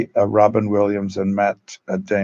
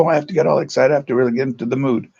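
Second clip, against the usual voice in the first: higher, fast, mock-keyed-up voice; mock overexcited actor; 4 semitones higher, much faster than usual. Acting teacher mocking actors who get all worked up. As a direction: parody the actor working himself up. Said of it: "some people go".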